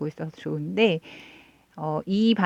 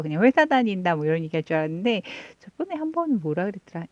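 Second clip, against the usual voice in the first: ordinary talk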